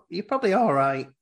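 half-laughing, mocking a casual brush-off; laughing through the quote. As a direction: laugh while you play it down. Gabe's dismissive quote, laughing.

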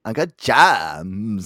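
put-on very slow, drawn-out Valley Girl "Uncut Gems". Shown as a demonstration. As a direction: demo a ditzy Valley Girl drawl. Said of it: "the Valley Girl".

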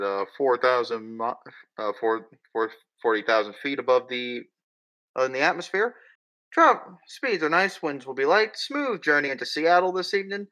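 captain's cabin announcement; lightly voiced airline pilot on intercom; pilot over the radio. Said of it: "and then you hear".

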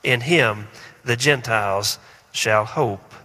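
measured liturgical reading; scripture reading. Acted. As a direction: read it like a lector.

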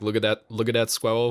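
squirrel said as "skwewwow", with W for R; mock lisping kid, squirrel gliding into Ws; kid's speech impediment. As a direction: imitate a child who can't say squirrel. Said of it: "kids who couldn't say squirrel".

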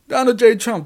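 loud, high announcer call on the name; ring announcer. Pretend. Calling Trump out like a wrestling ring announcer, loud and high. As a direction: bellow it like introducing a wrestler.

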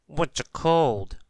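high, slow, puzzled question. A narrator's reading. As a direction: ask it wide-eyed and slowly. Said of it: "asked Mister Sneeze".

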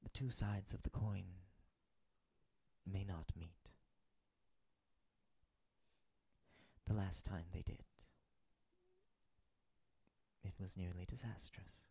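hushed, solemn celestial figure; gentle angel voice. Acted. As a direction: speak softly like a wise angel. Angel character speaks softly.

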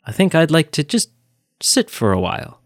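a lightly voiced old man's gentle farewell; poetic farewell. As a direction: hand it over tenderly, like a last gift. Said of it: "so poetic the way he said it".

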